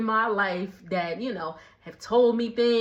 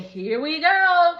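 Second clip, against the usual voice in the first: mock uh-oh; 6 semitones higher, 5 dB louder, slower than usual. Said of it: "I said".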